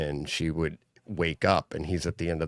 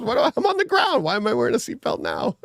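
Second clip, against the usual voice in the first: joking dad; 3 dB louder than usual. Retold or imitated. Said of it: "just joking".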